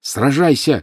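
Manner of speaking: high, loud demand to fight; Harry's shouted challenge. A narrator's reading. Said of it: "крикнул Гарри". (громкий высокий вызов на бой)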